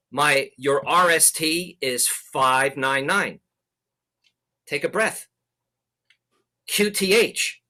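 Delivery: slow, with long pauses between items; spaced out. Shown as a demonstration. Modelling a calm exchange for students, slow and spaced. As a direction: read it out like a well-spaced Morse exchange. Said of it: "let's say you're sending protocol one".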